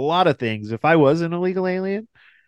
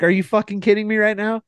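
higher, fast exasperated disbelief; imitating own fed-up outburst; retold outrage; 8 semitones higher, faster than usual. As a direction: fire it off in disbelief.

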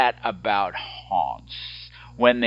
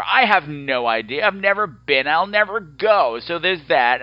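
half yelling; 5 semitones higher than usual. Real, not acted. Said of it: "I don't know why I'm yelling at you".

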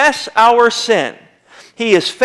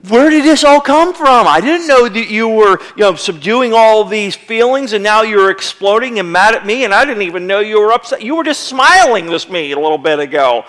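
imitating the wife. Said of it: "And she's like".

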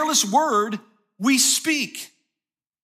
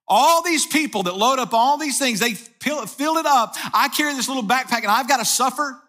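raised, mildly put-upon protest; indignant complaint; 2 semitones higher than usual. Retold or imitated. Passenger protesting to the stewardess about his backpack, indignant complaint. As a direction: complain as if singled out unfairly.

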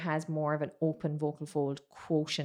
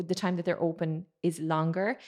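ordinary talk

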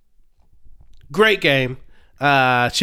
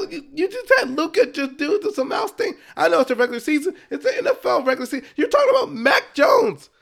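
high exasperated rant; frustrated rant; 6 semitones higher than usual. Real, not acted. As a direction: vent with real frustration. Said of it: "I'm losing my voice right now".

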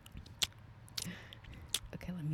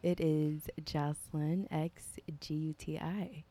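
whispering. Pretend. Spelling her handle quietly.

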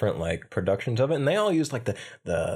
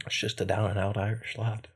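Irish accent; 2 semitones lower, 5 dB quieter than usual. Shown as a demonstration. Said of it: "Irish accent".

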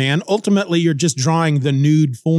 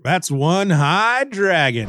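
stoned dragon; slower than usual. Pretend. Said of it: "a dragon who gets stoned a lot".

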